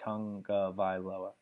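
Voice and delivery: Tagovailoa sounded out as "tung-guh-vai-lo-uh"; quoted pronunciation. Retold or imitated. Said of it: "someone asked him how to pronounce it".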